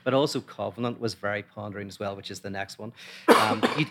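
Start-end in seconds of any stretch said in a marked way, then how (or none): 3.3-3.9 coughing mid-sentence; coughing fit. Real, not acted. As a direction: cough breaks into the words. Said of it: "I apologize for coughing".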